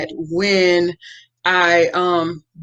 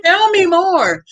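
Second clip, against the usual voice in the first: high, louder laugh through the words; 12 semitones higher, 3 dB louder than usual. Real, not acted. Amused listener urges the speaker on, laughing.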